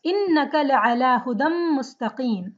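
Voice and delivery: intoned, measured Arabic recitation; Quran recitation. Acted. Teacher recites the verse for students, recitation style. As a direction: chant the verse in flowing recitation.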